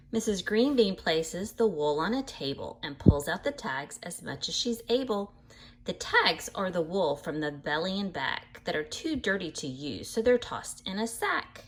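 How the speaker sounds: lively storybook reading voice; animated picture-book narration; reading to children. A narrator's reading. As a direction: read it bright and sing-song for little listeners. Reads book aloud to children.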